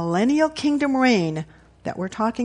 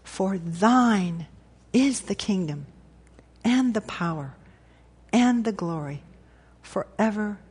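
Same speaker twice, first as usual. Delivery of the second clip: measured, deliberate recitation, weighing every phrase; very slow prayer. Real, not acted. Pastor closing with the Lord's Prayer, very slowly. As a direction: pray slowly, with long pauses between phrases. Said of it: "let's say it very slowly".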